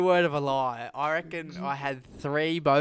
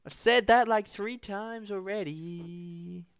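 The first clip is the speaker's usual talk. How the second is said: Kermit voice; 6 semitones higher, slower than usual. Retold or imitated. Keeps the puppet voice.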